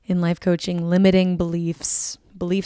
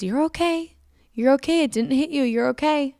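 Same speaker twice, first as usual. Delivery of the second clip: higher-pitched insistent reassurance; imitated motherly reassurance; 7 semitones higher than usual. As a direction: voice a mother quickly reassuring her child. Voices mother reassuring her.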